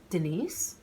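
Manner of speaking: put-on the name Denise with a French accent, rising; French waiter greets her by name, French accent. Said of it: "With his French accent".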